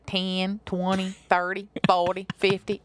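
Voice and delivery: mock Southern counting; mocking Southern accent. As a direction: imitate cousin counting with a Southern twang. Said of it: "made fun of my cousin a lot".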